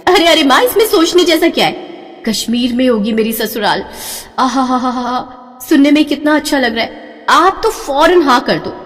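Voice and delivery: high, eager delighted gushing; bride-to-be gushing over Kashmir; excited pleading. Acted. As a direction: sweep mother along with joy. Daughter thrilled about Kashmir.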